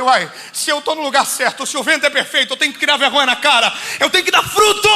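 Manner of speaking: loud rising cry, voice climbing to a shout on "fruto"; fired-up declaration. Retold or imitated. Preacher to his congregation, retelling his vow: a loud rising cry. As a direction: shout it like a vow you finally mean.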